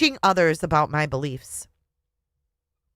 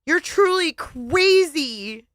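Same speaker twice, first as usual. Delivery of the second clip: cold final insult; 10 semitones higher, much slower than usual. Acted.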